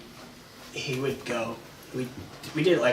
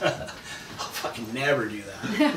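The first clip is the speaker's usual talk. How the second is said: laughing refusal; much slower than usual. Retold or imitated. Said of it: "I was like".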